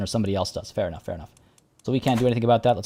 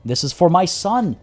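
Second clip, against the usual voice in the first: overjoyed proud ruler; 4 semitones higher than usual. Acted. Ruler announcing a granddaughter's birth, overjoyed. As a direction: play a ruler savoring happy family news.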